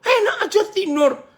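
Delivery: high, scolding yell; acted indignant shout, pitched high; rough, rude waking. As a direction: berate a sleeper in alarm. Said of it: "kalau yang lebih kasar bilang".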